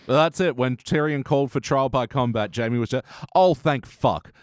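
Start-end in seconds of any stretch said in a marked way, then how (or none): 3.3-4.3 huge relief. Acted. Jaime voiced, relieved at trial news.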